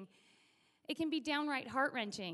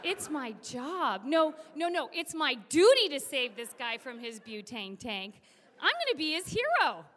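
mock-heroic declaration, louder on key words; self-rousing heroism; 6 dB louder than usual. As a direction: talk yourself into a noble duty. Heart talks him into heroics.

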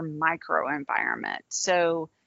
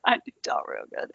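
mock Southern accent. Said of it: "my Southern accent".

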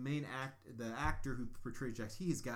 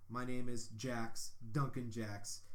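slow, lightly voiced suave spy intro; a half-hearted Bond-style self-introduction; James Bond style; 2 semitones lower, slower than usual. Recapping the hero meeting the woman, mild Bond-style delivery. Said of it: "James Bond style".

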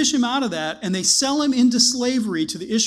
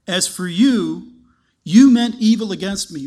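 stern declaration; 8 dB louder than usual. Acted. Joseph confronting his brothers.

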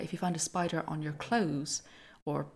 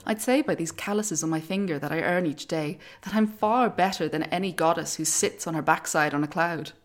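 louder scornful bragging; proud boast; 6 dB louder than usual. Acted. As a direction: boast with contempt for the gods. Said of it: "said Arachne".

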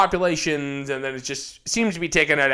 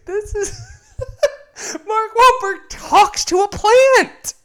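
laughing; 6 dB louder, slower than usual. Real, not acted. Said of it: "laughing through disbelief".

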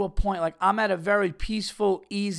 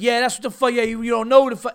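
higher, fast, mocking parting shot from the stranger; taunting hothead; 5 semitones higher, 5 dB louder, faster than usual. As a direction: throw the last word over your shoulder. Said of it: "then just be like".

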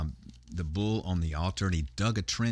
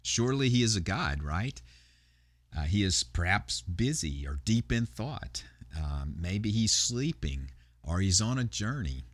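taunting; 3 semitones higher than usual. Retold or imitated. Elijah mocking Baal's prophets at noon, lightly taunting. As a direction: lightly needle them with exaggerated rises and dips. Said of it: "Elijah begins to taunt them".

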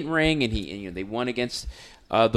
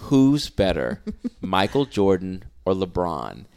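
deadpan; 5 semitones lower, slower than usual. Retold or imitated. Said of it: "He looked at me deadpan".

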